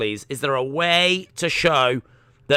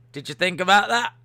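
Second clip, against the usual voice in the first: pushy repeat; 4 semitones higher, faster than usual. Acted. Repeats the question to Austin.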